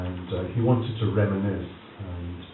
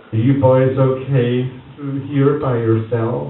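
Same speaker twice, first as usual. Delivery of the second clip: slow, higher American lady voice; imitating the American daughter-in-law checking in; 5 semitones higher, 9 dB louder, slower than usual. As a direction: ask sweetly with suspicion. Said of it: "came and said".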